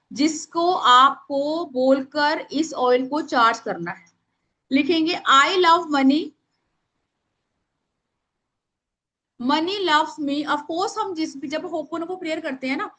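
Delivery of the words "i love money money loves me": slowly spaced, leaving time to write; dictating to a class; slow dictation. Shown as a demonstration. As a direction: read it out word by word. Dictating the money prayer.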